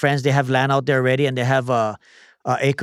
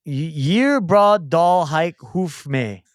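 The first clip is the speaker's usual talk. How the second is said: slow, halting Viking-sounding syllables; accidental Viking; much slower than usual. Real, not acted. Player sounding out a word puzzle, accidentally Viking. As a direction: sound out each odd word, unintentionally Viking. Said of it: "Think I sound Viking".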